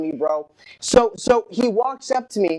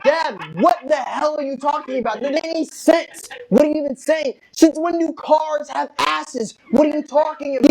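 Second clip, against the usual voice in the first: exasperated; 5 semitones higher than usual. Retold or imitated. Exasperated son argues with dad.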